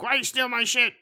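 high, loud mock protest; mock outraged yell. Retelling the hero confronting the woman who robbed him, mock outraged yell. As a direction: yelp it as the wronged hero, hammed up.

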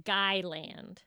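slow Long Island "Guyland" for Long Island; Long Island accent. Shown as a demonstration. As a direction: say "Guyland" with a hard G like guy. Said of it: "how to say Long Island in Long Island accent".

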